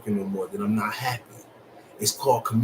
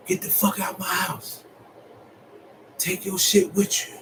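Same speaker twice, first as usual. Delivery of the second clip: angry yell; 8 semitones higher than usual. Retold or imitated. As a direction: throw him out with a shout.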